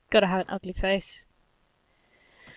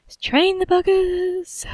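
higher, slower gleeful call to arms; rally the troops; drawn-out high rallying shout; rallying cry; 8 semitones higher, 4 dB louder, slower than usual. Real, not acted. Rallying to fight.

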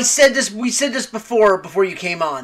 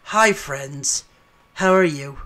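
soft, low Bob Ross-style voice; golf commentator; 8 semitones lower, 7 dB quieter, slower than usual. Retold or imitated. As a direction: lower and gentle, like a painting show host. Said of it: "Jim Nance turning to Bob Ross".

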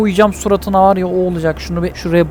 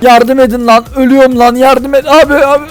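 mock plea for help; 3 semitones higher than usual. Driver playfully cries for help being hit, mock panic. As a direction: pretend panic, pitch climbing.

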